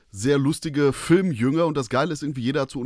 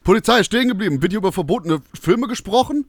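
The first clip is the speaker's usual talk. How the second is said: Polizeibefehl; 10 semitones higher, 8 dB louder than usual. Acted. Filmpolizei stürmt herein, Sketch.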